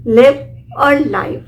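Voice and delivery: slow, clear लिव और लाइव; two pronunciations. Shown as a demonstration. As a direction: say लिव with short i, then लाइव with long ai, slowly. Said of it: "लिव pronounce करेंगे या लाइव". (लिव और लाइव का साफ़ धीमा उच्चारण)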